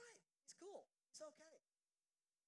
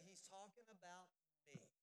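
half-hearted; 3 semitones lower, 6 dB quieter than usual. Shown as a demonstration. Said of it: "y'all didn't say that with much conviction".

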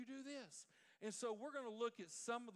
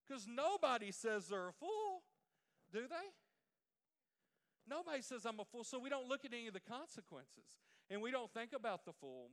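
preaching at full force; 3 semitones higher, 7 dB louder than usual. Real, not acted. Pastor presses the congregation about ignoring consequences, preaching loudly.

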